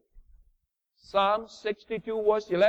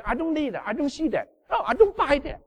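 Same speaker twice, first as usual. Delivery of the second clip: higher, curt brush-off of God's offer; dismissive doubter; 7 semitones higher than usual. Retold or imitated. Preacher voicing doubters who reject the pleasant land, dismissive. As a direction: wave it away like a stubborn skeptic.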